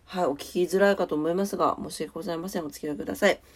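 stuffy-nosed voice; talking through a blocked nose; nasal voice. Real, not acted. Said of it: "相変わらず鼻声でございます".

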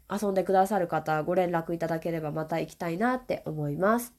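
stuffy nose from a cold; nasal voice. Real, not acted. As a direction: talk with a blocked nose. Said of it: "むしろひどくなったかな。".

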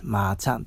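まーちゃん repeated with its own distinct tune; different nickname intonation. Shown as a demonstration. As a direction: demonstrate the tune of まーちゃん, a lift on ちゃ. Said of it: "イントネーションが違うんですよ".

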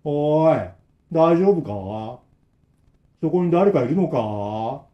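put-on slow, flat old man call; expressionless repetition. Old man repeats the same call, expressionless. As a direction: repeat it with no feeling, slowly. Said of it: "無表情な声でずーっと同じ".

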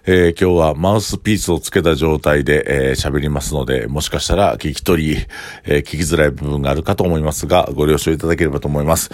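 talking with a mouthpiece in; words slightly muffled by a mouthguard; wearing a mouthguard. Real, not acted.

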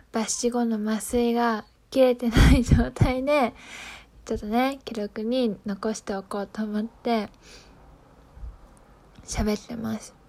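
talking with a numb mouth; numb from anesthesia. Real, not acted.

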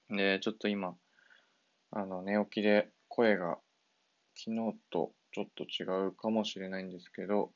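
groggy just-woke-up voice. Real, not acted. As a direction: voice still thick from sleep.

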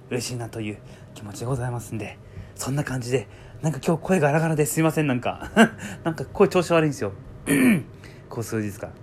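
rough, hoarse speaking voice. Real, not acted. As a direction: talk through a hoarse throat.

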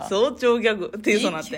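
quick, slurry talk with a numbed mouth. Real, not acted. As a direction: let the anesthetized mouth blur the words. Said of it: "麻酔が効いているということで".

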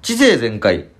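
high, drawn-out hero roll call; sentai hero shout. Pretend. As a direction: announce each name like a sentai hero. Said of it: "名乗り口上を作ってみました".

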